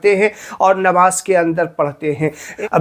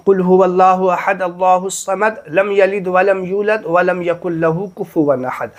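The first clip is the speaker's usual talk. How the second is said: recited Quran. Shown as a demonstration. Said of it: "पहली रकात में लोग पढ़ते हैं".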